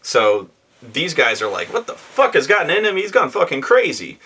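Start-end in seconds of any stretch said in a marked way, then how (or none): 1.7-4.2 high, fast, alarmed yelp of panicked players; shocked players. Retold or imitated. Players shocked by frenzied vampire.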